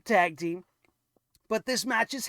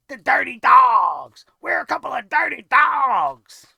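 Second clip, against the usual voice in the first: mocking shout; 9 dB louder than usual. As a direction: shout the name like a joke. Mocking the team name.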